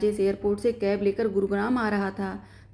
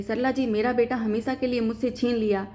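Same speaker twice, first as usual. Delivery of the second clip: crying lament; 2 semitones higher than usual. Acted. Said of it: "लिपटकर रोने लगी".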